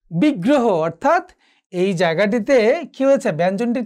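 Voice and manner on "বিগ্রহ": বিগ্রহ as big-gro-ho; careful repeat of বিগ্রহ with a held g; doubled consonant. Shown as a demonstration. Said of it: "দ্বিত্ব উচ্চারণ হয়েছে".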